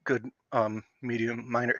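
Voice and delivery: stuttering slip on words. Real, not acted. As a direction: trip over the words, real stutter. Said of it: "God, stutter. I do have a stutter".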